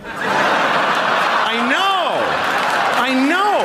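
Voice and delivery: high-pitched exclamation; shocked agreement. Real, not acted. Comedian answers the audience's shock at the slur, exclaiming.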